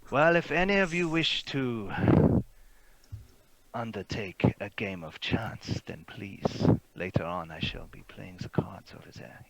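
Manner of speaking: a hint of courtly invitation; foppish gentleman. Fop inviting travellers to cards, foppish. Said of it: "foppish gentleman".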